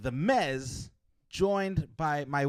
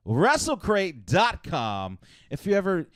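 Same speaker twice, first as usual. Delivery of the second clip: slow, drawn-out sponsor plug; ad read; 5 semitones higher, 5 dB louder, slower than usual. Acted. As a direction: sell the sponsor name.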